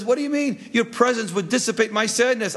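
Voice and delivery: high-pitched indignant refusal; mock protest. Sadness rebuffs pleading Love, comic protest.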